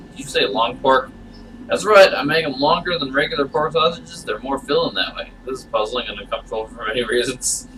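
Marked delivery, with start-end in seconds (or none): 1.7-4.2 creepy host voice. Acted. Chuck character voice.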